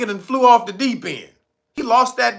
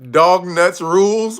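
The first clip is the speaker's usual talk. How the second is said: laughing shout; 6 dB louder, slower than usual. Pretend. Reading chat joke, loud laugh.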